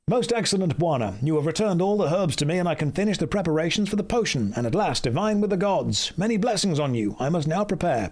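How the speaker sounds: quest-giver read in a put-on accent; lightly voiced game character with an affected accent. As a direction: rattle through the dialogue in a put-on accent. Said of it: "Yes, this is my accent".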